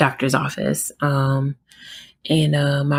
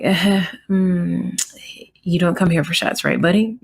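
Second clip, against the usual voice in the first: reassuring mom; 3 semitones higher than usual. Retold or imitated. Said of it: "so I was just like".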